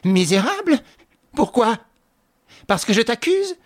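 mock laugh in the voice; sneering. A narrator's reading. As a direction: sneer back at the insult. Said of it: "elle ricana".

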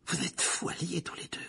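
high, frightened quaver; trembling voice. A narrator's reading. Ron faces Black and Lupin, voice trembling. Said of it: "dit Ron d'une voix tremblante".

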